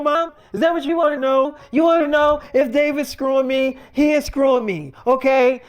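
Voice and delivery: mildly sarcastic retold teen outburst. Daughter retorting to her mom's questioning, retold with mild sarcasm. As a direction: throw mock confession questions back, a touch pushy. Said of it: "I ain't tell you to be sarcastic".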